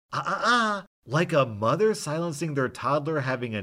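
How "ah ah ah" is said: sharp, much higher, louder scolding; yell. Retold or imitated. Boss attendant cutting off the drunk passenger, sharp high yell. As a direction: silence him like a toddler having a tantrum. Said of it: "hold up her hand and yell".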